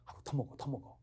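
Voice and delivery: soft, offhand coaxing; lightly acted host pressing food on a guest. Shown as a demonstration. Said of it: "연습을 한번 해봅니다".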